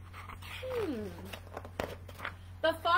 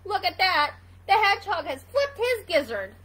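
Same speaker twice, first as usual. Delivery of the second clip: louder, lightly voiced mocking gander; laughing gander; 3 semitones higher, 7 dB louder than usual. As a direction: jeer like an amused goose. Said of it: "The gander laughed".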